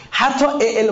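normal talking voice

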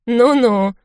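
a nasty little scoffing laugh; mock her with a grim smirk; father's sneer at his daughter; angry smirk. A narrator's reading. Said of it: "зло усмехнулся отец".

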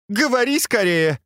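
high-pitched impatient command; snapped order. A narrator's reading. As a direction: hurry the servant up sharply. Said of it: "прикрикнула на него Фэнзе".

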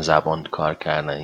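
کار کردن with a curled English r; mock the accent with an English r in کار; joking r imitation. Teacher teasing affected speakers, کار کردن with English r.

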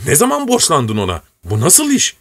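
put-on a flustered old retainer begging his young master; old servant protesting.

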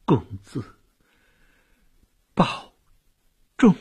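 halting, with long pauses between words; dying last words. A narrator's reading. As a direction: spend your last strength on each word. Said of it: "用尽生命的最后一点力气".

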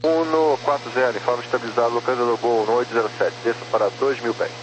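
radio transmission; over a crackly radio; crackly military radio. Real, not acted. Radio exchange with approach control.

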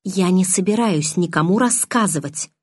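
"Я не собираюсь никому рассказывать" articulated very clearly; very clear enunciation. A narrator's reading. Bella restrains her anger, "Я не собираюсь никому рассказывать" said very distinctly. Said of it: "очень чётко произнесла я, сдерживая гнев".

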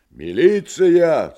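slow, high, loud shout. Acted. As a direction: yell into the phone. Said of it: "закричал Иван в трубку".

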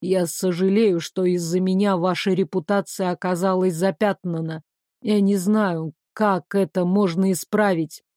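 a hint of a courteous gentleman; lightly voiced apologetic man. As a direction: apologise formally, pitched a little down.

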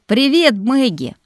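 bright, slow, loud hello; drawn-out happy hello; cheerful greeting. Acted. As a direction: greet her like an old friend.

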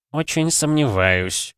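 медленно, с едкой насмешкой; протянуть с сарказмом; язвительно. A narrator's reading. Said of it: "Голос кардинала стал язвительным". (кардинал язвительно возражает координатору)

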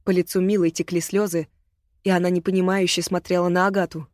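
ordinary delivery, nothing marked

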